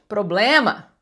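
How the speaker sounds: PROBLEMA with the middle syllable strongest; proBLEma, Portuguese stress, all syllables clear; stress on BLE. Shown as a demonstration. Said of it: "o blem é a mais forte".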